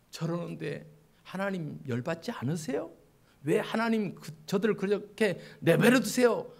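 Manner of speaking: mildly reproachful questioning; resentful complaint. Acted. Prophet asking God why sinners are left alone, mild resentful complaint. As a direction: press God with a touch of grievance. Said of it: "원망을 하나님 앞에 쏟아내고 있는 거예요".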